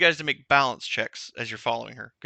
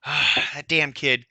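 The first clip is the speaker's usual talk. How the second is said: put-on old Trent; 2 semitones lower, slower than usual. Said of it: "old Trent goes".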